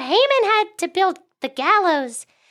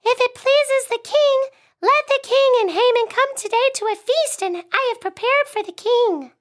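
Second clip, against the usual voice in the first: queen; 5 semitones higher than usual. Acted. Plays Queen Esther.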